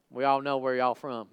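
lightly voiced country folk accent; a touch of country twang accent. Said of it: "these guys have an accent".

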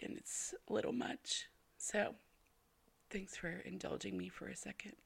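soft, tearful voice giving way; hushed, close to tears; a little weepy. Real, not acted. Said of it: "didn't mean to get all weepy".

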